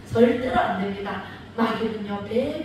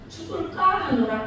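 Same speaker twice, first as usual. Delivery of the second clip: vague Eve; 4 semitones higher than usual. Retold or imitated. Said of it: "이렇게 얘기를 했어".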